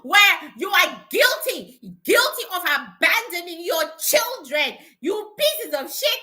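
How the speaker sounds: mock accusing rant, punched key words; emphatic, half-playful berating; re-enacted scolding. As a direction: re-enact telling them off. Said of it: "screaming at them at three A M".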